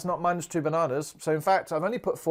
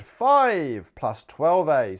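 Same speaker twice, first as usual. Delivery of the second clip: slow read-out; 5 dB louder, much slower than usual. Shown as a demonstration. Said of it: "I'm just gonna say this out loud".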